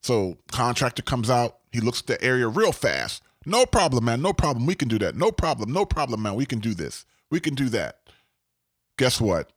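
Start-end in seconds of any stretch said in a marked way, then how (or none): 3.4-8.0 put-on breezy repeated assurances in a light Jamaican accent. Contractor glancing at the area and agreeing instantly, light Jamaican accent. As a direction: imitate a too-easy contractor, hint of Jamaican lilt. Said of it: "I put this Jamaican accent".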